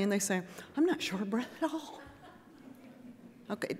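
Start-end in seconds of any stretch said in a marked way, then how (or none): 0.8-2.0 breezy denial. Retold or imitated. Panting patient denies breathlessness.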